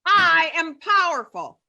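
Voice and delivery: high, slow rallying chant; cheerleader. Shown as a demonstration. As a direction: lead the crowd like a cheerleader. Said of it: "Cheerleader voices".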